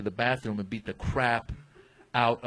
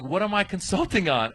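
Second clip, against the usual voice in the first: higher-pitched mock panic; retold fretful question to himself; freaking out; 7 semitones higher than usual. Comic retelling his worry before immigration, freaking out. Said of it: "I'm freaking out".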